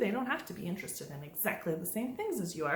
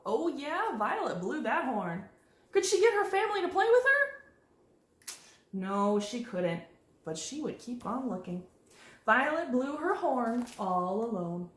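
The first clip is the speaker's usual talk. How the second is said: expressive picture-book narration; reading to children; 2 semitones higher than usual. A narrator's reading. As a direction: read it aloud with lilting pitch swings.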